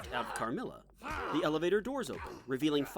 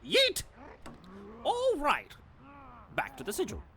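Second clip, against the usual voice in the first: giddy shrieks; 11 semitones higher than usual. Acted. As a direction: squeal it out. Gleeful high shouts.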